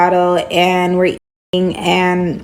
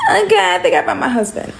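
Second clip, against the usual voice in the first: giddy excitement; 11 semitones higher, faster than usual. Retold or imitated. Giddy over gorgeous match.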